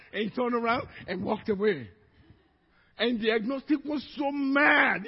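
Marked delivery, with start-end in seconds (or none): 3.0-5.1 emphatic shout. Real, not acted. Telling of anger, shout heard.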